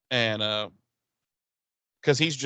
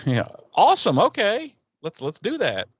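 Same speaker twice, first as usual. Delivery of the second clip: excited yes; 7 semitones higher, 5 dB louder than usual. Retold or imitated. Mayor delighted.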